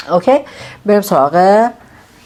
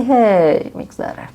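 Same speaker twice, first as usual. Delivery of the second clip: casual Persian reply; 4 semitones higher, slower than usual. Shown as a demonstration. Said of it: "به اون میگه اوضاع چطوره، میگه".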